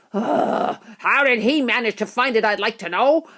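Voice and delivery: mildly voiced cross boy; angry. A narrator's reading. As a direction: grumble with a touch of anger. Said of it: "a boy shouted angrily".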